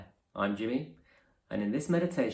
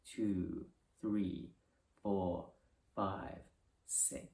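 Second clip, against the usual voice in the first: slow, even count with pauses between numbers; guided breathing count; 4 dB quieter, slower than usual. Acted. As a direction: pace the breaths calmly, each number falling softly. Leads counted breathing exercise.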